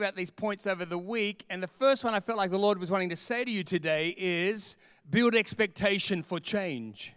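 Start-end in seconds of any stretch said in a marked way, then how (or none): 5.1-7.1 slow, stressed declaration; measured preacher emphasis; slow emphatic repeat. Shown as a demonstration. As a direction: lay out each word of build expectation for change. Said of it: "I need to say that one more time".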